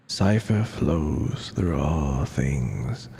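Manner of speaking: lightly voiced weary narrator, worn down; tired and withered voice. Player voicing the game's narrator, lightly tired and withered. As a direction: tell it like a spent old spirit. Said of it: "trying to do, like, a tired and withered voice for it".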